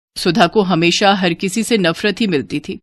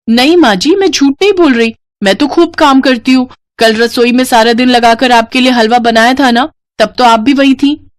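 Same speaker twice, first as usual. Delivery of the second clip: lying daughter-in-law; 3 semitones higher, 4 dB louder than usual. Acted. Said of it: "फिर से झूठ बोलकर बचने की कोशिश की".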